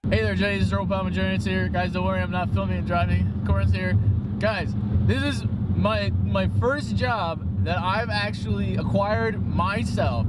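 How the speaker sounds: talking while chewing gum; words around a wad of gum. Real, not acted. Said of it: "I got gum in my mouth".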